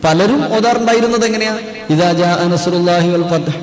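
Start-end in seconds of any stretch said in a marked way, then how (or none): 1.9-3.6 "ഇദാ ജാ നസ്റുല്ലാഹി വൽ ഫത്ഹ്" read straight through without long holds; unlengthened reading. Retold or imitated. Teacher imitates how many used to recite "ഇദാ ജാ നസ്റുല്ലാഹി വൽ ഫത്ഹ്", unstretched reading. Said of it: "അങ്ങനെ ഓതിയാ പോരാന്നാ?".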